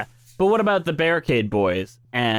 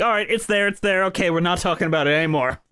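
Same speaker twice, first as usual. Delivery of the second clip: dismissive; 4 semitones higher, faster than usual. Retold or imitated. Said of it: "by being like".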